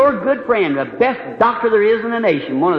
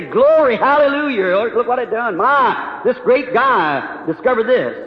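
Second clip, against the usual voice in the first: mock rejoicing; 2 semitones higher, slower than usual. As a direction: hail it like a gushing believer, mockingly. Mocking praise for the vaccine.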